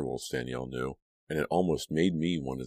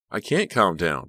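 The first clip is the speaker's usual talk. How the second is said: crying out; 3 semitones higher, 6 dB louder than usual. A narrator's reading. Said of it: "Danielle cried".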